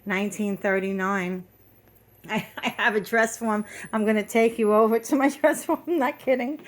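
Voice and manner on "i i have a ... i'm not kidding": giggling through the words; amused, laughing at herself. Real, not acted. Laughs about dress forms.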